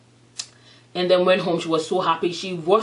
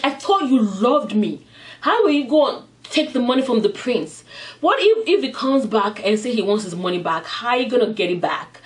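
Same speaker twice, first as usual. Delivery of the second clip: raised-pitch, mildly angry questions; mock indignant scolding; 3 semitones higher than usual. Woman confronts boyfriend over taking the money, mildly indignant retelling. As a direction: retell her hurt, angry challenge. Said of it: "she got mad".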